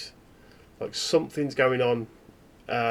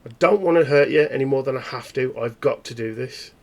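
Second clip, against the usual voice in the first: menacing snap; 6 dB louder than usual. Acted. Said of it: "He just goes".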